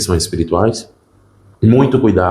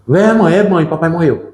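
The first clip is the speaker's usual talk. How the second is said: menina de três anos imitada, bem mais aguda e mais alta; voz de menina pequena; 9 semitones higher than usual. Retold or imitated. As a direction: chame a mãe como uma criança insistente. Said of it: "ela começou a dizer". (menina avisando a mãe da morte do pai, voz infantil aguda)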